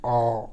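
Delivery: a rubbed Angika अ; Angika short a. Shown as a demonstration. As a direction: shift the voice on अ. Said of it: "आपको आवाज़ बदलना होगा".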